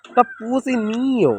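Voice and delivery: high surprised greeting. Real, not acted.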